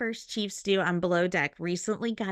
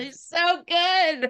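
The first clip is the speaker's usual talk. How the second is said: slow, high, loud Kiwi praise; Kiwi accent; 7 semitones higher, 5 dB louder, much slower than usual. Acted. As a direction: savour it in a New Zealand voice. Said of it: "say an Asia quote like the Kiwi Queen".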